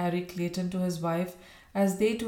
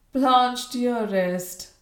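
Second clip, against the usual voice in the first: loud, high, concerned call; raised, anxious exclamation; crying out; 5 semitones higher, 6 dB louder, much slower than usual. A narrator's reading. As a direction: cry out the endearment in alarm. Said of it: "cried Bella".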